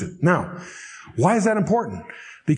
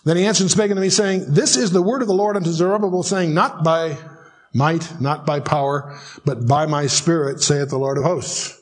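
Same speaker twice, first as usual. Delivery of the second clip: measured, slowing recitation of a verse; scripture reading. Acted. Teacher reads the prophet's verse to a class, scripture reading. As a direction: read it out deliberately, settling toward the end.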